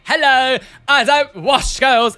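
loud, high comic call-out; brash put-on hello; mock character greeting. Mock greeting voicing a photographed ear.

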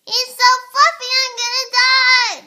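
put-on high squealing little girl; Agnes impression. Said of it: "Agnes impression".

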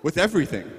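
chirpy upbeat imitation of him; lightly hammed-up sunny optimist; forever optimist. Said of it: "He's like".

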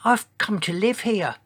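high-pitched little voice for a giant; tiny voice. A narrator's reading. Enormous dinosaur greets new neighbour, tiny-voiced. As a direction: make the big dinosaur sound tiny. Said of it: "in a voice so tiny".

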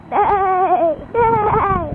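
horse neigh. Retold or imitated. Kid neighing.

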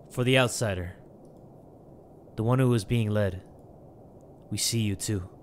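low, quiet, ominous reading; reading a note. Acted. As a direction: read the cryptic message low and measured. Reads note.

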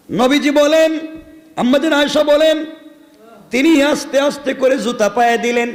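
high, ringing preacher's call; fervent preaching. Acted. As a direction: lift the story to the crowd in full sermon voice. Preacher raises voice in narration.

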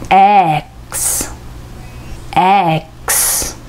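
X said as the vowel e followed by the blend ks; Xを母音と子音で発音; English letter X. Shown as a demonstration. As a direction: sound out X as e then ks, teacher style. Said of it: "とすの子音からできています".

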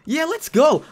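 hyped self pep talk before the boss. Real, not acted. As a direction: psych yourself up before the fight. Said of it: "I'm so hyped for this".

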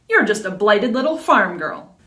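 "You're" stressed, falling, contemptuous; scornful insult. Acted. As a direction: sneer "You're" at her with a falling end. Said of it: "scoffed Vicarax".

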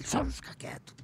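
high breathy whisper telling him to hush. Retold or imitated. Romeu whispering at Léo to keep quiet during the ceremony, hushed. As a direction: whisper it, just shut him up.

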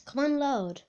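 slipping into an American accent; impatient chant in an American-tinged accent. Real, not acted. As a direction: say it with an accidental American twang. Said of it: "I don't know why I sound American sometimes".

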